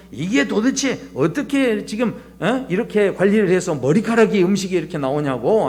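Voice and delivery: mildly acted indignation; imitating a customer making a fuss; mock angry complaint. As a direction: scold the staff like a fussy diner. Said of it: "난리 난리를 치시는 분이".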